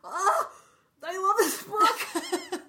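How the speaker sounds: real giddy joy; gushing delight. Real, not acted. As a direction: swoon over a favourite book. Gushing about the book.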